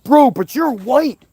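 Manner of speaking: slow exaggerated sarcastic retort; mocking quote. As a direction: imitate a smug critic, mocking. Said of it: "somebody incorrectly says".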